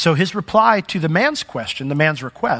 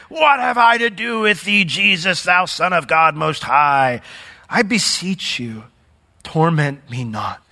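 mild raised cry, slowing into a drawn-out plea; loud cry. Acted. Possessed man crying out to Jesus, loud cry. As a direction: cry out loudly, stretching the last words. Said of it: "with a loud voice said".

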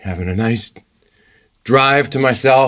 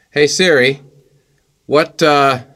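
talking to voice assistant; 6 semitones higher than usual. Acted. Asking phone assistant.

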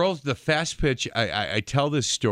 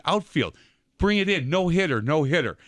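retold call to the outfield, pitched higher; 4 semitones higher than usual. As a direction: catcher calling her team in, mock taunt. Catcher calls to her team.

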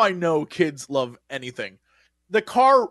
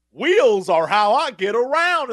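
animatronic line; 3 semitones higher, 3 dB louder, slower than usual. Retold or imitated. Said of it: "Lightning McQueen literally was just like".

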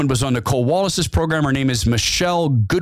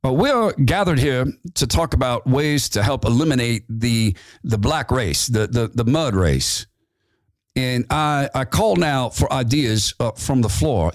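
a hint of a self-important chairman calling for ideas; Metzger voice. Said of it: "how I remember Metzger's voice".

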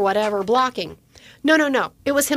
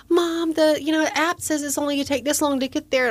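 lightly voiced son arguing, pitched up; a hint of higher-pitched teenage protest; imitated protesting teen; 5 semitones higher than usual. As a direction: mimic a kid pleading his case to mom.

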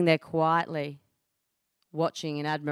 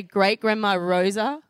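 stunned realisation; 3 semitones higher than usual. Retold or imitated. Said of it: "I look at her in shock".

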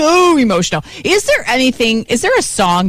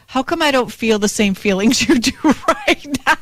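puzzled laughing quote. Retold or imitated. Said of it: "you stand there and you're like".

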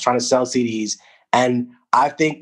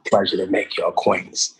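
friendly, courteous greeting voice; polite regular voice; 4 semitones lower than usual. Shown as a demonstration. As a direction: sound pleasant and proper. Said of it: "And this is the regular voice".

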